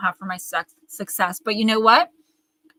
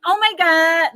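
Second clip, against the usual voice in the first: higher, louder put-on gasp; mock gasp; 8 semitones higher, 7 dB louder, slower than usual. Imitating a jealous greeter, mock gushing gasp. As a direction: gasp like a fake fan. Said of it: "If the first thing you say isn't".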